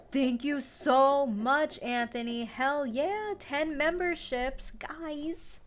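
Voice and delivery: thrilled, high-pitched and loud celebration; real excited thanks. Real, not acted. Streamer thanks a viewer for gifted memberships, genuinely excited. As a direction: whoop it up for a generous gift.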